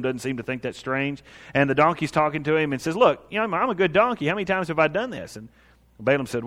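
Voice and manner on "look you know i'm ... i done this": higher, lightly voiced aggrieved donkey; mildly indignant protest. Donkey protests to Balaam who is whipping it, mildly aggrieved. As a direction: plead your case, a touch indignant.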